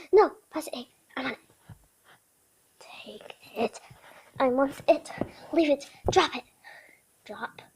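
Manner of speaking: voicing the dog. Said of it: "saying stuff of what I feel like she thinks".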